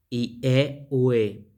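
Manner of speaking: "Y e, ue" in separated vowel groups; pronunciation demo. Shown as a demonstration. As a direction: sound out "Y e, ue" as ee-EH, oo-EH. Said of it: "Esta es la pronunciación".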